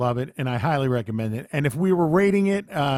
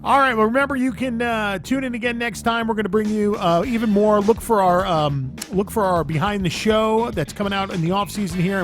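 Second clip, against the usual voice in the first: show sign-off; 5 semitones higher than usual. Real, not acted. Host reads the sign-off.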